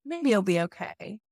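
a hint of a naive girl talking herself into it; hopeful young woman. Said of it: "as a young woman being like".

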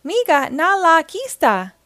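high, loud alien creature voice; a mischievous little alien blurting nonsense; alien gibberish. A narrator's reading. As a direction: spit out cheeky alien gibberish. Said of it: "replied six two six".

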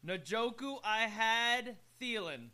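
"Njoku", pause, then slow, emphatic "I had Thielen"; read as separate names. Shown as a demonstration. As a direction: present "Njoku I had Thielen" slowly as a team name. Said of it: "took me about four times reading that one".

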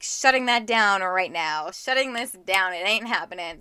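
slow, emphatic imitation of a mother; firm parental veto, drawn out; stern mom. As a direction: lay down the law as a mock-stern mom. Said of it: "my mom was like".

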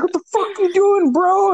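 high-pitched mock disbelief; retold incredulous protest. Retold incredulous challenge to friend.

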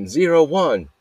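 high, loud imitation of a yelled tennis score; retold yell. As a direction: call the score out like a referee. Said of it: "yelling it".

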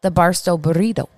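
"burrito" with a rolled Spanish R. Real, not acted. Co-host craving her favorite dish, "burrito" with a rolled R. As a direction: roll the R in "burrito". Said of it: "That's a good roll on the burrito".

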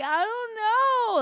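high, stretched-out whimper; slow wail like she's about to cry; helpless whimper. Retold or imitated. Telling friends how lost she felt, whimpering. Retelling her crying helplessness.

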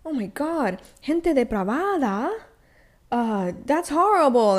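appalled, pearl-clutching church lady; shocked church lady. Retold or imitated. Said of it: "in the church that are gonna be like".

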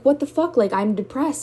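sharp high burst of disbelief at the partner; stunned that her sadness got turned on her; shocked disbelief. Retold or imitated. To the partner who blamed her crying, shocked and disbelieving.

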